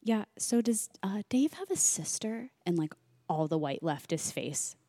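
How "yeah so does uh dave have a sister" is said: hushed unvoiced question; whisper. Asking Chris about Dave's sister in a whisper. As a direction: whisper it like a secret. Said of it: "and I said".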